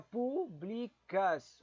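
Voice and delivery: "públicas" stretched slowly, syllable by syllable; sounded out slowly. Shown as a demonstration. Checking quiz word "públicas", drawn out slowly. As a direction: draw out "públicas" to hear where the stress falls. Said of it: "E a última".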